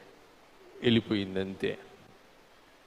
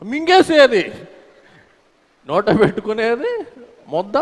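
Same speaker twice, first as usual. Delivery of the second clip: mock gulping; 7 semitones higher than usual. Preacher imitating the maid gulping her food, high and squeaky. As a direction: imitate someone swallowing food whole. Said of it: "ఎట్టా తినేదంటే".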